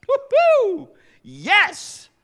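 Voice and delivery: very high, loud ecstatic cheer; jubilant whoop. Retold or imitated. Jacob seeing Rachel, shrieking a joyful woo-hoo. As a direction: whoop like you just won. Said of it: "he's like".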